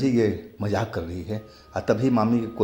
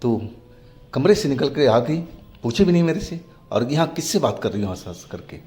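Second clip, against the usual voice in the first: sharp, high, loud scolding; 4 semitones higher, 3 dB louder than usual. Acted. Mother scolding her daughter for sneaking out, sharp and loud. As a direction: scold the girl caught on the stairs at night. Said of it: "बोली डांटते हुए".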